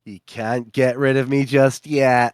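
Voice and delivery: laughing loudly, then a pained ow; laughing through pain. Real, not acted. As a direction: laugh it out, wincing at the end. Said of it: "it hurts to laugh".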